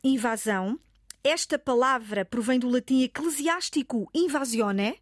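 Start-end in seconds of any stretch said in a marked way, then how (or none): 0.0-0.8 "invasão" with a clearly open A; careful "invasão", open A before the final syllable. Shown as a demonstration. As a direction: model "invasão" with "va" said as an open "vah". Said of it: "O A é aberto".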